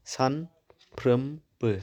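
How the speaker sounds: सानफ्रोमबो stretched very slowly, syllable by syllable; drawn out slowly. Shown as a demonstration. Teacher showing students the syllables, very slowly. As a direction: pull सानफ्रोमबो apart into its syllables. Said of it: "सानफ्रोमबो मोनथाम थाबाय".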